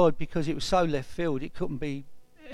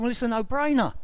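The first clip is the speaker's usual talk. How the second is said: higher-pitched, amused retort; reply as if it's obviously funny; retold amusement; 4 semitones higher, faster than usual. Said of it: "I just really burst out laughing".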